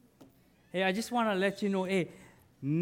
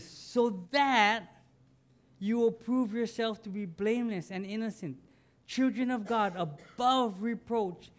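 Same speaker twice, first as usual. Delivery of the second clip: scripture reading; 2 semitones higher than usual. Acted. Reads scripture aloud to congregation.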